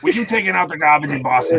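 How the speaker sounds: exaggerated Boston accent, dropped r's; hammed-up mock Boston ad voice; worst Boston accent. Host imitating back-office Al, bad Boston accent. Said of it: "who has the worst Boston accent in the world".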